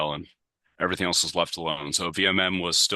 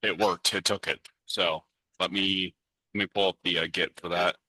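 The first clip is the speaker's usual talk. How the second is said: tinny mechanical audio. Real, not acted. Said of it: "your audio is very tinny and mechanical".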